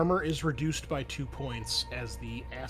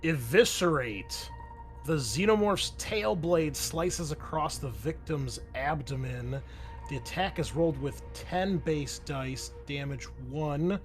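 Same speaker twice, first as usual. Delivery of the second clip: slow, emphatic opening, settling into steady reading; game master reading an attack card; dramatic rules read-out. Acted. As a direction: announce the monster's attack with relish. Reads out the monster's attack.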